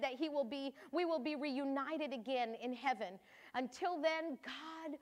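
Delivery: tired mother's diary at night; Mary, sorrowful mother. Acted. Mary's diary, night after crucifixion.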